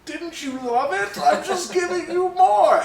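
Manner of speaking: squeaky put-on New Zealand impression; New Zealand accent. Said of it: "that was my New Zealand accent".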